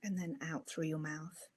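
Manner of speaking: unhurried breathing instructions with long pauses; easy meditation-teacher delivery, pausing for each breath; guided meditation. Acted.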